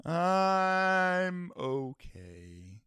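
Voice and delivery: very drawn-out, pitiful whine; mock tearful. Co-host answering how he's doing, hammed-up misery. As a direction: drag it out as if about to cry.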